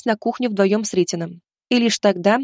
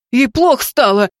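louder, panicked cry; panicked exclamation; 3 semitones higher, 5 dB louder than usual. A narrator's reading. Husband bursting in about his pregnant wife, panicked cry. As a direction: blurt it out in panic for your wife. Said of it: "в панике воскликнул он".

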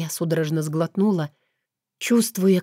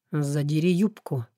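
tempting devilish whisper; 2 semitones lower than usual. Acted. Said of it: "Вкрадчивый шёпот обжёг шею". (вкрадчивый шёпот)

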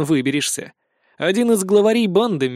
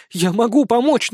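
urgent plea; 7 semitones higher than usual. A narrator's reading. Begging not to be abandoned.

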